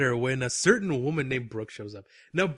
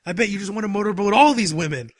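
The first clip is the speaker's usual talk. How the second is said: put-on louder, higher drunken taunt; imitating loud woman; 4 semitones higher, 6 dB louder than usual. Drunk coworker teasing him about the women, imitated loud voice. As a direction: blurt it for the whole table to hear. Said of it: "She's super loud".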